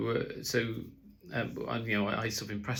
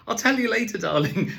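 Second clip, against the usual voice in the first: much higher, louder put-on brush-off; 13 semitones higher, 9 dB louder than usual. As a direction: fend her off in a squeaky high voice. Parent deflects the question.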